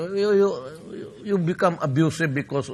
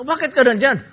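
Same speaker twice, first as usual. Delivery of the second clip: higher, louder surprised question; surprised president; 8 semitones higher, 7 dB louder than usual. Retold or imitated. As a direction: play the president, caught off guard. Ramos voiced in anecdote.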